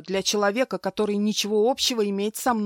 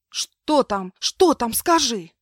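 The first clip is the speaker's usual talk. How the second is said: higher, louder panicked questions; 5 semitones higher, 6 dB louder, slower than usual. Acted. Woman in labour begs the maid, loud panicked questions. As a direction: demand to know in panic.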